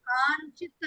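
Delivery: కాంచిత్ said with an n sound before చి; pronunciation demo. Shown as a demonstration. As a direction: say కాంచిత్ as "kaan-chit". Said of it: "అని పలకాలి".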